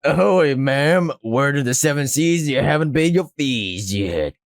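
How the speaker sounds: lightly voiced pirate extortionist; hint of a seafaring racketeer; pirate act. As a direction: put on a bit of a pirate swagger. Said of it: "Whatever this pirate act is supposed to be".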